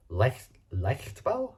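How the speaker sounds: Leichtbau attempted slowly, restarting after Leicht; unsure pronunciation. Real, not acted. Reader retrying a translated German word, unsure pronunciation. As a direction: sound out Leichtbau slowly, ending on a questioning rise. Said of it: "Can't really pronounce that".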